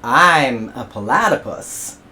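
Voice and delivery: slow, deliberate I'm a platypus; patient repeat. Acted. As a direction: spell it out slowly.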